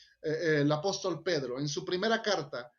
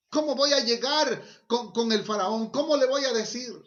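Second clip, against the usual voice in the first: raised, higher worried objection; reluctant man's raised objection, lightly acted; mildly acted protest; 5 semitones higher, 4 dB louder than usual. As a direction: retell it as an anxious protest. Voicing Moses's protest to God.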